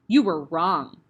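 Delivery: a loud, low bark. Acted. Headmistress barks at nervous Eric. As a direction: bite the words off hard. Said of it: "the Trunchbull barked".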